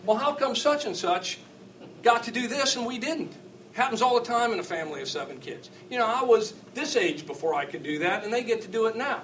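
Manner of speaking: high mock kid complaint; whiny child. Father mimicking kids comparing privileges, high and whiny. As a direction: plead it up high like a wronged child. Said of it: "they say it more subtly".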